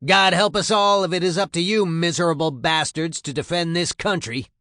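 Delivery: loud, high sergeant's harangue; disgusted tirade. A narrator's reading. Sergeant looks over the new recruits, loud disgusted berating. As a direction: tear into them with open disgust. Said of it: "he looks disgusted at what he sees".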